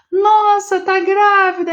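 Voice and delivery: imitating someone blurting out a remark; mock surprised exclamation. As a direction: play the tactless excited compliment, a bit hammed-up. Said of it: "aí você fala do corpo".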